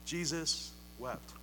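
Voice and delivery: soft and slow, letting each word hang; hushed reverence. Acted. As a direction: say it softly and slowly, full of awe. Reading the shortest Bible verse.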